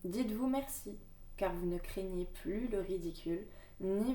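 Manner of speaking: measured, earnest reading of the card text; card reading aloud. Acted. Reading her oracle card to viewers, earnest reading voice. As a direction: read the message to viewers like an oracle.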